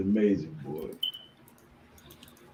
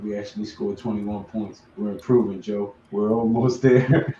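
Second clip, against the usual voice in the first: smooth; 3 semitones lower than usual. Acted. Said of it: "he say it so smooth".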